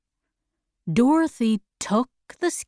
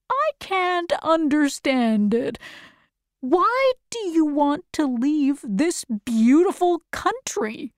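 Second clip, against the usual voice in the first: lightly voiced scarecrow, pitched higher; higher storybook character, a touch of bewilderment; puzzled scarecrow; 5 semitones higher than usual. Scarecrow asking Dorothy about leaving, mildly puzzled.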